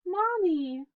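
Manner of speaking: high, wailing little bunny calling for mommy; a small lost child crying out; high plaintive wail for mommy. Acted. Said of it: "Bunny started to cry".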